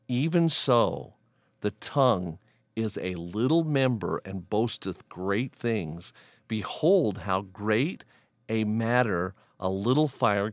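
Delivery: measured, emphatic Bible reading; Scripture reading aloud. Acted. Teacher reading a Bible passage to listeners, measured and emphatic. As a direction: read the verses out deliberately.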